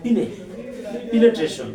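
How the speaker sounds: "পিনে" first, then whole "পিনেট্রেশন", with "ne" not "nya"; corrected pronunciation. Shown as a demonstration. Teacher applying the learner's new rule, corrected pronunciation. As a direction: give "পিনে" alone, pause, then "পিনেট্রেশন" firmly. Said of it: "ই উচ্চারণ হবে".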